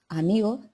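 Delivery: amigo with the final s dropped. Shown as a demonstration. Teacher demos Andalusian lost final s. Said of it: "en vez de decir amigos".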